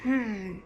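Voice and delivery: low pretend-cross hmm; mad hmm. Shown as a demonstration. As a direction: grumble hmm, acting mad. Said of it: "That's a mad face".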